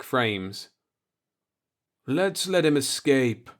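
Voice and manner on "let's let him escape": over audio circuit. Acted. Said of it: "Hoffman suggested on the audio circuit".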